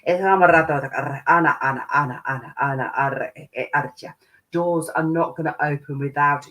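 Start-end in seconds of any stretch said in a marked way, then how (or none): 0.1-4.2 repetitive rolling syllable chant; light language. Real, not acted. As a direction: chant invented syllables in an unbroken stream.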